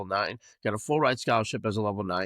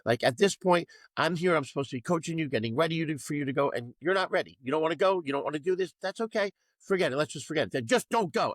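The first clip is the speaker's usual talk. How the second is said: higher-pitched exasperated lecture, mildly heated; frustrated coach; 4 semitones higher than usual. Retold or imitated. Coach rephrasing to unmotivated gymnasts, mild exasperated scolding. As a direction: let the annoyance leak into every line. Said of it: "I rephrased and I said".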